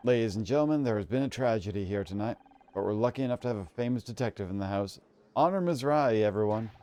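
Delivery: lightly voiced emcee address; public announcement. Guest announces a famous detective to the crowd, emcee style. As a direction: present the detective to the hall.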